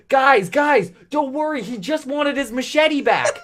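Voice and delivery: high-pitched laughing call to the crew; high yelling with laughter. Retold or imitated. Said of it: "yells out to the crew".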